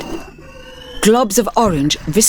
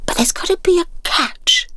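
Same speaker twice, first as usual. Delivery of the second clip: hushed doubt, half to himself; suspicious whisper; 12 semitones higher than usual. Acted. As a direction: mutter the doubt. Clyde doubting.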